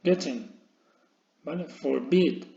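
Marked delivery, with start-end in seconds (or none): 1.6-2.4 "Forbid" with the second syllable stressed; stress on last syllable. Shown as a demonstration. Teacher introducing forbid as an example, end-stressed. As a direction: put the weight of "Forbid" on its end. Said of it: "Acentuación, eh, en la última sílaba".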